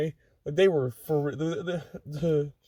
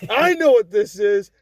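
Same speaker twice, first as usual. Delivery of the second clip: drill sergeant; 4 semitones higher, 4 dB louder than usual. Retold or imitated. Sergeant voiced in story.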